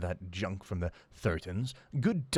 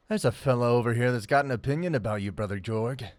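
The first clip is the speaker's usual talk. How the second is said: loud, fast call across the camp; 3 semitones higher, 6 dB louder, faster than usual. Acted. Mackin calling out to Brother Jorg, loud and quick. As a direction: sing out the news to your leader. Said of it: "Mackin called out".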